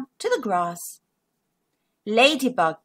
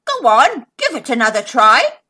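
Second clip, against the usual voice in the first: grinning encouragement; 6 dB louder than usual. Acted. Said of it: "Monkey grinned".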